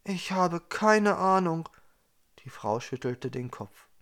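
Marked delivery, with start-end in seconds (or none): 0.0-1.7 higher, louder, insistent technician; a tense female engineer, higher and louder; technician woman. A narrator's reading. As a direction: explain it as an agitated expert.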